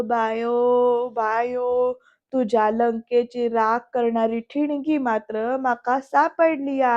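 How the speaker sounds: slow, drawn-out scheming to oneself; talking to himself. Acted. Sudhakar plots against Bayo to himself, slow musing. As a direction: stretch the name out, musing privately. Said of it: "असं स्वतःशी त्या सुधाकर म्हणतो".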